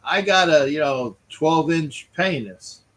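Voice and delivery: high, loud mock Swedish tourist; John Candy line. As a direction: belt it out like a cheeky tourist. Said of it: "He goes".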